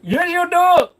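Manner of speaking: put-on high, loud Indian accent insisting; shouted scammer accent. Scammer yells back at a reluctant victim, Indian accent. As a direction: Indian accent, yelling the retort. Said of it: "stop doing that accent".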